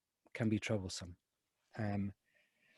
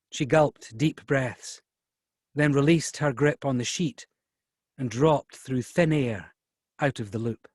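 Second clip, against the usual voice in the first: unhurried audiobook narration, deliberate phrasing; story narration; 3 dB louder, slower than usual. A narrator's reading. Closing the reading for an event audience, slow measured narration. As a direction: narrate slowly, letting the passage close. Reads novel aloud.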